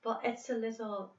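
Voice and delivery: lilting Northern Irish with throaty R; sing-songy Irish accent. Shown as a demonstration. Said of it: "a pretty thick Irish accent".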